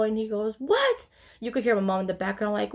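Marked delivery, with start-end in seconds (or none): 0.6-1.1 very high, startled question; retold shocked reaction. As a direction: imitate a parent's shocked yelp. Dad's shocked reaction on phone.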